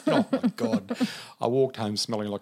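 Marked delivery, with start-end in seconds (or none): 0.0-0.9 laughing, higher and louder. Real, not acted. Teller laughing at the smoke-filled room, higher and louder. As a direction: burst out laughing mid-sentence.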